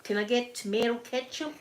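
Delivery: a lightly done American accent; hint of American accent, barely shifted. Shown as a demonstration. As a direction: order a burger in a weak American accent. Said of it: "That's, that's my American".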